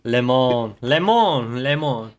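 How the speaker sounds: "Le Mans" repeated as "leh mon" with a falling tune; practising pronunciation. Shown as a demonstration. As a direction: drill "Le Mans" three times, "leh mon". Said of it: "I was practicing it earlier".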